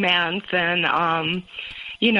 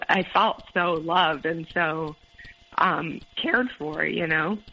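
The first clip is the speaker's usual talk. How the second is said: teary; slower than usual. Real, not acted. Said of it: "Sorry, I'm getting teary already".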